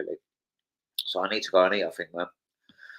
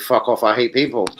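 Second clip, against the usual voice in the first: mock snarl; 3 semitones higher, 6 dB louder than usual. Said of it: "Then he comes back with".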